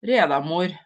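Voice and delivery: name read in a Norwegian accent; tentative Norwegian pronunciation, as if asking. Real, not acted. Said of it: "read that with a Norwegian accent".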